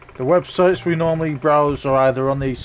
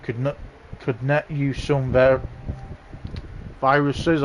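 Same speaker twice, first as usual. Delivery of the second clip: tweaking; 3 dB quieter than usual. Real, not acted. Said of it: "I don't know why I'm fucking speaking like a crackhead".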